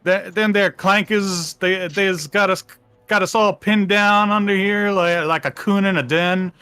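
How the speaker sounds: hammed-up backwoods Southern accent; southern redneck accent. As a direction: put on a slow, high southern drawl. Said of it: "militia guys sound like rednecks".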